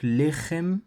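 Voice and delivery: lechem drawn out slowly, le-khem, rising at the end; careful pronunciation. Shown as a demonstration. Teacher insisting the class pronounce it fully, slow. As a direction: stretch lechem slowly and clearly. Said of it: "il faut bien prononcer".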